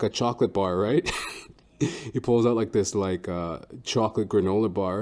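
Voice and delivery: normal talking voice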